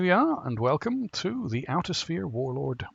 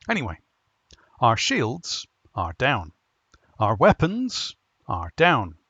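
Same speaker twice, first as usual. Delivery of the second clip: lightly performed captain's log monologue; comic story narration; 7 dB louder, faster than usual. Acted. Narrator recounting the uncle's crimes and the ship's plight, comic storytelling. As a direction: read it as a dry comic monologue, pausing for punchlines.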